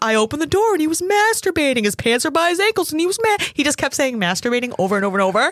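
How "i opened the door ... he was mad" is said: raw, full-throated, high, shrill screaming, acted out. Recounting a pizza place owner's outburst with police outside, retelling a man's screaming. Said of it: "the owner of the pizza place screaming".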